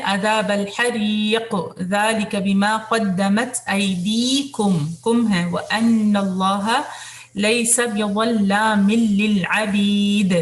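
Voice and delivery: slow melodic tajweed recitation; Quran recitation. Shown as a demonstration. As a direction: chant the verse slowly and evenly.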